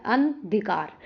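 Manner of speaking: अंधिकार split as an-dhikaar; correct form. Shown as a demonstration. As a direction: say अंधिकार in two parts, with no naa. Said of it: "अंधिकार होता है".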